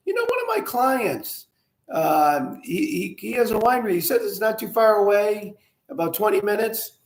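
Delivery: a hint of the doctor chatting; chiropractor quoted. Chiropractor tells his patient about a nearby winery, lightly voiced. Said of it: "the chiropractor doctor goes".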